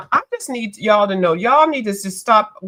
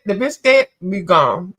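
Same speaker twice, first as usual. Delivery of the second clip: mock quote; 2 semitones lower than usual. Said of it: "So they said".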